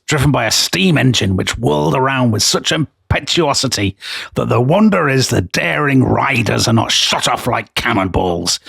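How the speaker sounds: put-on Yorkshire accent for an old newspaper report; hammed-up northern English accent, Halifax style; local Halifax accent. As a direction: read it out in a broad Halifax accent. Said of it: "Maybe I will do the accent".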